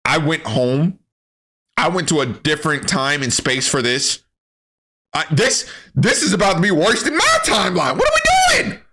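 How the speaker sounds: whiny exasperation climbing to a shriek; exasperated Trunks. Retold or imitated. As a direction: complain like you're fed up with it all. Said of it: "I would have been like".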